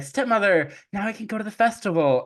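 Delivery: high, quick, delighted voice; super happy. Acted. Cinderella telling stepmother she finished, super happy. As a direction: burst out with eager good news. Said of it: "she's super happy".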